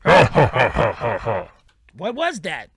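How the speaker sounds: slow dread-filled movie line; horror movie whisper-gasp. Acted. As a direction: stretch it like a jump-scare line. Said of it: "you just hear".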